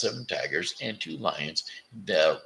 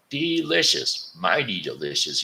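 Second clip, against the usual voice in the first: crocodile savoring. Acted. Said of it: "he said".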